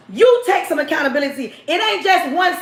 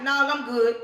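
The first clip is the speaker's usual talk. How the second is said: lower, quieter polite brush-off; man backing off; 4 semitones lower, 6 dB quieter than usual. Retold or imitated. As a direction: back away softly, not interested. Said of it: "he like".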